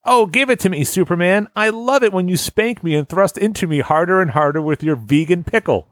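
high, breathy nerd moaning; nerdy voice. Retold or imitated. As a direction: play it as a squeaky nerd. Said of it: "a white, nerdy voice saying".

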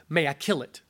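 low, calm, grave question; stern angel voice. Acted.

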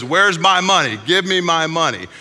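loud, high, acted angry demand. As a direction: raise the voice like a creditor shaking someone down. Creditor chokes debtor demanding money.

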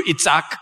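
Itzhak said the Hebrew way, guttural ch at the start; Hebrew name. Shown as a demonstration. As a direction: give Itzhak its Hebrew sound. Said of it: "or in Hebrew".

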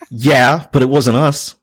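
a cheeky answer broken by real laughter; laughing through it. Real, not acted. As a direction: deny it while cracking up. Laughing while retelling his reply.

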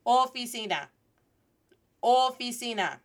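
"Oficina" with long round o, clear ee; repeat-after-me pronunciation. Shown as a demonstration. Teacher leading the class in oficina, deliberate Spanish vowels. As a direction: say "Oficina" as oh-fee-SEE-nah for repeating. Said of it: "Say it with me".

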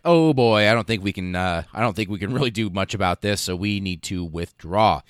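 put-on a touch of alarm on oh boy, then resigned; lightly voiced marines giving up; mildly dismayed marines. Royal Marines conceding to the invaders, mildly dismayed. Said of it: "and they're like".

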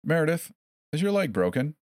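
high, sweet mock question; sing-song quizzing. A narrator's reading. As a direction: quiz her like a game-show host. Captor quizzing in cheery tone.

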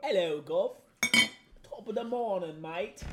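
hammed-up British greeting; fake British accent. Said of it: "it's not a good British accent".

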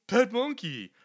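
high, loud dim-witted voice; like a guy with a brain injury; dopey voice. Retold or imitated. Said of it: "like he has some brain injury".

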